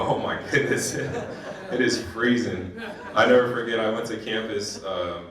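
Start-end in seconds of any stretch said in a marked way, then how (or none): 0.0-2.7 breathy laugh through the words, half whispered; retelling a freezing first winter with a laugh; laughing at the cold. Retold or imitated. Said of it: "I go".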